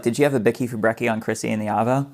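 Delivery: put-on a light Aussie accent on the slang; casual Australian slang, lightly voiced. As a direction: slip lightly into Australian for the phrase. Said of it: "Australians say things like".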